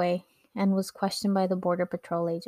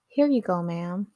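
put-on best American accent. Handing passport to agent to show English, American accent. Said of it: "in my best American accent".

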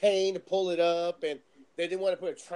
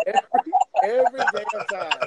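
loud, emphatic comic complaint; exasperated punchline; loud exasperation; 9 dB louder, faster than usual. Retold or imitated. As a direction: belt it out over the laughter. Exasperated punchline amid group laughter.

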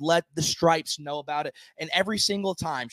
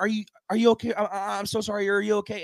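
higher, panicky mock apology; frantic apology; 4 semitones higher, faster than usual. Imitating a friend apologizing after kicking a fan, high and frantic. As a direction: plead sorry over and over.

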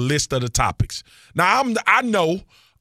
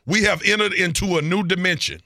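grand sci-fi opening line, pitched higher; Star Wars introduction; 5 semitones higher than usual. Acted. Podcast host hyping space travel to his co-host, Star Wars introduction. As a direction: announce it like an epic movie intro. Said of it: "sound like a Star Wars introduction".

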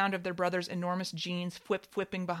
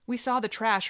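mocking sister; 5 semitones higher, 6 dB louder than usual. Sister mocking father at dinner.

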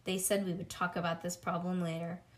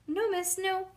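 high, fast no, miss; child's frantic denial; panicked denial; 11 semitones higher, 3 dB louder than usual. Acted. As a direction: stop the teacher coming over. Child denying to teacher.

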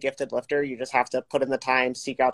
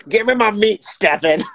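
demanding bro voice; 6 semitones higher, 8 dB louder than usual. Pretend. Mocking demanding gym bro.

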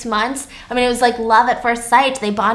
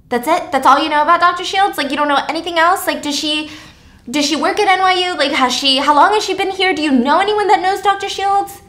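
higher, faster rapid-fire questions; urgent questioning; 5 semitones higher than usual. Acted. Jessica grilling Taylor, fast urgent questions. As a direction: press hard, question after question.

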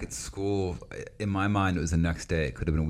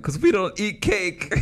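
put-on high, prim little kid voice; child voice; 12 semitones higher than usual. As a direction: answer like a prim seven-year-old. Child self voiced, mom scene.

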